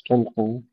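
تلقوا with thin ل before heavy ق; light ل. Shown as a demonstration. Teacher repeating for pupils, thin ل in تلقوا. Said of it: "نرقق اللام".

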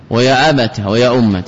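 ويا أبت and ويا أمة each ending in short "ta"; brief a ending on أبت and أمة; fatha on ta. Shown as a demonstration. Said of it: "بفتحهما".

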